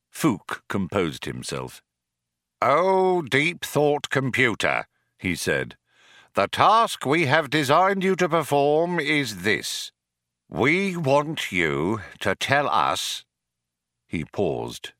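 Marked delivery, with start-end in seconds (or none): 2.6-13.2 slightly raised, ceremonial petition; solemn address. Acted. Programmer puts the task to the computer, solemn address. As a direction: lightly declaim it to a great machine.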